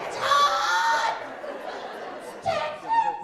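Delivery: very high-pitched mock wail about the heat; hammed-up whining. Partner driving around Texas complains of heat, hammed-up whining. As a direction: wail like a put-upon whiner. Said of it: "'cause they whine a lot".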